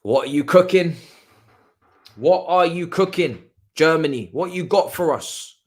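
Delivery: loud, punchy challenge to the team; hyped demand. Real, not acted. Fan urging Germany forward, hyped demand. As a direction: call out loudly, egging the attackers on.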